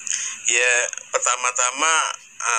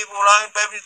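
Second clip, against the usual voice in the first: calling out; 7 semitones higher, 3 dB louder than usual. Retold or imitated. Villagers searching for lost child.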